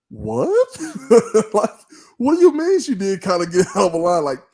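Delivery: high, laughing in disbelief.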